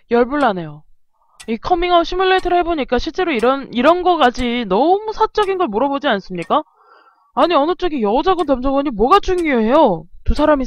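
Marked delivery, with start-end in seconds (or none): none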